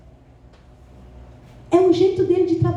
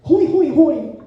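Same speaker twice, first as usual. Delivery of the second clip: RUIM repeated, each one leaned on and falling; emphatic, drawn "ruim" three times; feeling rotten; 4 dB louder, much slower than usual. Retold or imitated. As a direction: hammer each RUIM in turn. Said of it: "eu tava assim, naquele dia".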